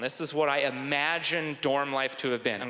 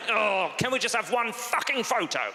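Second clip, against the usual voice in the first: exasperated British dad, raised pitch; 7 semitones higher than usual. Retold or imitated. Dad fed up trying to take a photo, exasperated British. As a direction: snap in a fed-up British accent. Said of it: "impression of my dad".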